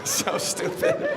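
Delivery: breathy laugh rising into "So stupid". Real, not acted. Comic cracking up at brother's logic, laughing through words. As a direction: laugh it out, slow and high.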